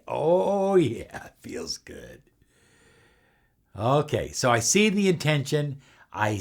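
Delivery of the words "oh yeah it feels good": whisper. Shown as a demonstration. Feeling the wish while meditating.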